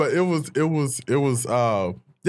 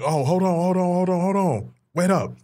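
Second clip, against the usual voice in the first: calling out; 6 semitones higher than usual. Retold or imitated. Young self stalling friends at door.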